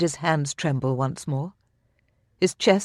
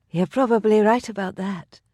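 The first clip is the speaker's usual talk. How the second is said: smiling; 6 semitones higher than usual. A narrator's reading. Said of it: "a smile in her voice".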